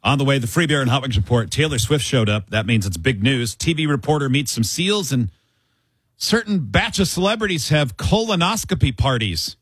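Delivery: upbeat radio promo read; radio show tease. Acted. Host teasing the next segment, upbeat promo read.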